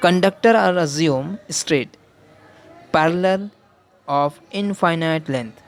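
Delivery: very slow, each word apart for note-taking; slow dictation. Shown as a demonstration. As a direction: dictate it so students can write. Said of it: "dictating assumption to students". (बहुत धीमे लिखवाते हुए)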